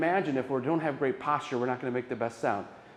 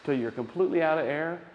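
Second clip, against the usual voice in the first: guided breath. Shown as a demonstration. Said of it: "So here we go".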